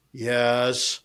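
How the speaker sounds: a fed-up yes with a roll of the eyes. Retold or imitated. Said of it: "she rolled her eyes at me and she goes".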